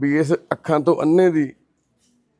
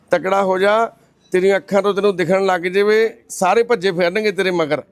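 higher, lifted pep talk; rousing encouragement; 5 semitones higher, 4 dB louder than usual. Real, not acted. Cheering up a crying blind man, rousing encouragement. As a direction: buck him up with a raised voice.

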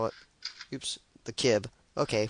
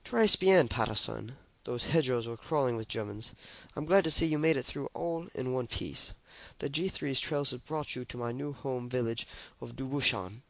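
put-on French accent. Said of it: "I'm gonna try doing her French accent".

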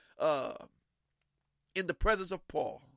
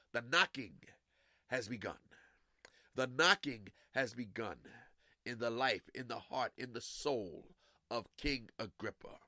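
hushed solemn; 6 semitones lower, 7 dB quieter than usual. Real, not acted. Preacher drops voice solemnly.

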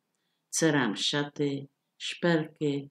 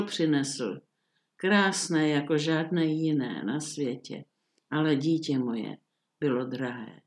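mild sad. Acted. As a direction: let the repeated "přinesl" drop, heavy-hearted, near tears. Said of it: "a pustil se do pláče".

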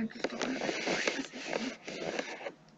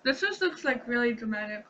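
excited; 4 dB louder than usual. Real, not acted. Excited reaction.

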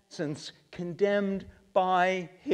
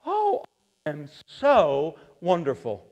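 mock boasting; 3 semitones lower than usual. Preacher mocking the proud, smug and boastful. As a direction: play a proud man admiring himself.

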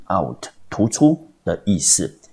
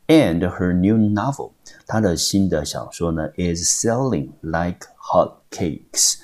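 slow, careful English reading; slow reread; 2 semitones higher, slower than usual. Shown as a demonstration. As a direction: read the phrase slowly for the learners. Rereads example phrase slowly.

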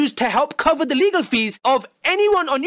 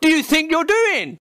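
angry dad rant. Pretend. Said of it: "that's what he clearly wants".

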